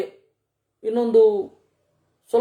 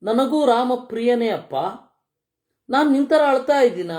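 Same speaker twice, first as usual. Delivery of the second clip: a touch of higher-pitched, gentle reproof; mild chiding; 3 semitones higher than usual. Acted. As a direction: lightly voice a sister-in-law's reproach. Sita chides weeping Lakshmana.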